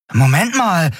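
high-pitched, startled interjection; sudden alarm. A narrator's reading. Miko whirls round to Kai, suddenly alarmed. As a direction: stop short as it sinks in.

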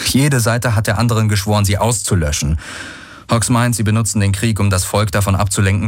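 lightly voiced disgust, mostly quick; mildly scornful, weary of it all; Galen, disgusted explanation. Man explains the war to his companion, mildly disgusted.

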